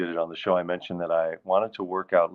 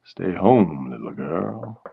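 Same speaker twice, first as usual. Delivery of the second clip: a bit menacing; 2 semitones lower than usual. Acted. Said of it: "It sounds a little bit menacing".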